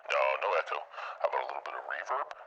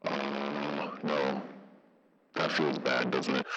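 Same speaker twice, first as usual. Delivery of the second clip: amp-style Tweed effect on the voice; Tweed filter; slower than usual. Shown as a demonstration. Streamer disliking a filter test, Tweed effect. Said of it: "this is Tweed".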